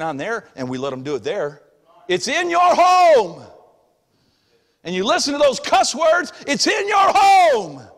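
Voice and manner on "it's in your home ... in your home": slow, loud, high, stretching home; emphatic preaching. Acted. Emphatic pulpit climax.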